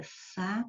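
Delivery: "saída" broken into sa, í, da; separated syllables. Shown as a demonstration. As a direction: say "saída" softly with long gaps between syllables. Separa as sílabas da palavra-exemplo. ("saída" em três sílabas bem separadas)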